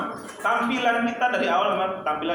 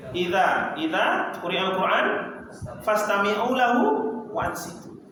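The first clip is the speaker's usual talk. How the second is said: slow chanted recitation of the verse; Quran recitation; slower than usual. Acted. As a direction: recite slowly with reverence. (tilawah pelan dan khusyuk)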